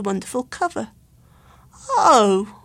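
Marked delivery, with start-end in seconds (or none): 1.9-2.6 sorrowful. A narrator's reading. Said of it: "cried Luke sorrowfully".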